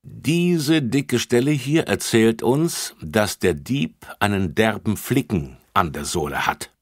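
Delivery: put-on officer explains the footprint to children; officer explaining. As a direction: explain patiently.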